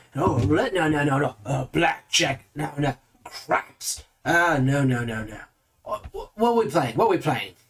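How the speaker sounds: very eager, excited, keen voice. Voicing a character eagerly picking a casino game: eager excited voice. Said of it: "very eagerly hopping back and forth".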